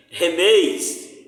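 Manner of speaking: Remeis with the stress on the final syllable MEIS; stress on last syllable. Shown as a demonstration. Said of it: "porque o acento está na oxítona". (Remeis com acento na última sílaba)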